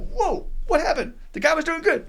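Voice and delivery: a high, loud, half-laughing whoa of disbelief; baffled surprise. Retold or imitated. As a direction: play the shocked group member who can't believe he left. People baffled as he walks out.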